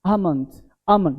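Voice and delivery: आमंड with silent L, softly; British pronunciation. Shown as a demonstration. Teacher models the British sound, softly corrected. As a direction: say आमंड as "AH-mund". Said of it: "हम लोग बोलते हैं आमंड".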